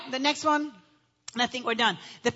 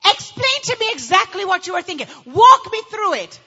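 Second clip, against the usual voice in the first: mock interrogation; interrogating detective; 2 semitones higher, 4 dB louder than usual. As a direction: press like a detective. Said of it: "they sound like".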